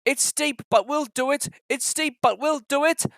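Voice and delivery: two engines puffing up the long hill; puffing together. Acted. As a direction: chug the words out in rhythm. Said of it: "the two engines puffed together".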